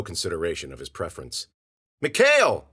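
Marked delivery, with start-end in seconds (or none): 2.0-2.7 loud, high shout of a name; big searching yell; calling out. A narrator's reading. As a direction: shout for someone lost in the dust. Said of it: "he called".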